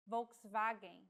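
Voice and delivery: Volkswagen with the W said like a V, as in German; Volkswagen, W sounds like V; word demo. Shown as a demonstration. Teacher models Volkswagen for learners, careful pronunciation. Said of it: "follows the pronunciation of the language of origin".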